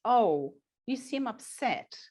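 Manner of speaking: put-on gently naming the child's upset, slowly; empathetic. Shown as a demonstration. Teacher to upset child, gentle and slow. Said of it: "The empathy part of it would be to say".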